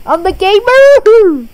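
emphatic boast. Real, not acted. Boasting contest over gamers.

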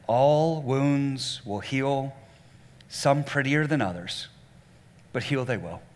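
very slow ALL WOUNDS WILL HEAL, each word set apart; emphatic re-reading. Shown as a demonstration. Preacher re-reads the last line to the congregation, slow and deliberate. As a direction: read it out slowly, letting "heal they will" settle. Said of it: "gonna read that last line again".

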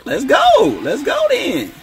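high, drawn-out "let's go" shout; excited cheer. Real, not acted. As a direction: cheer the basket on, loud and high. Cheering a mid-range jumper.

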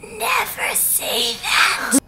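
high, drawn-out theatrical plea; melodramatic brooding. Acted. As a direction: draw every word out slowly, hammed-up anguish. Hammed-up quote of brooding Edward.

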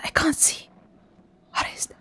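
soft, voiceless whisper; scared whisper. Real, not acted. Player who can't see in the dark, scared whisper. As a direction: whisper it, afraid of what's out there. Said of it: "I mean, I'm whispering".

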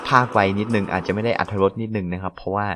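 speaking softly late at night; quiet voice. Real, not acted. Late-night gamer talking softly so as not to wake the house. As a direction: keep it down so nobody wakes. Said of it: "ผมอาจจะพูดเสียงเบานิดนึงนะฮะ".

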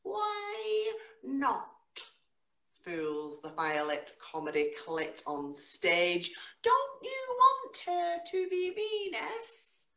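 slow, rhythmic spoken-word delivery with big pitch leaps; dramatic poetry reading with slow, stretched lines; performance poetry. Acted. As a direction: perform the poem to a live room. Performs her poem live.

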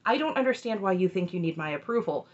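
retold calm, measured objection; even, understated disagreement. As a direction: imitate someone staying level-headed. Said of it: "Jamela stays very calm".

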